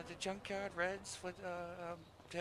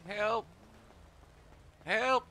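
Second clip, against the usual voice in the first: calling for help; 2 semitones higher, much slower than usual. Real, not acted. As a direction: call out for someone to come. Lost player calls for help.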